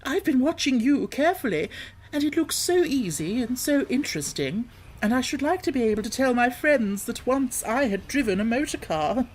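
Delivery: put-on high, eager pleading old-woman voice; Toad as washerwoman. Toad disguised begging the driver to drive, high pleading.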